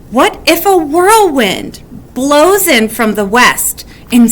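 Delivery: spiral into worry, peak at the end; worried. Acted. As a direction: Weasel fretting about the wolf and wind. Weasel's worried what-ifs.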